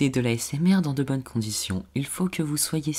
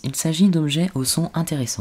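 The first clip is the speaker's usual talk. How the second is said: ASMR whisper; 4 semitones higher, 4 dB louder than usual. Shown as a demonstration. ASMR presentation, demo whisper.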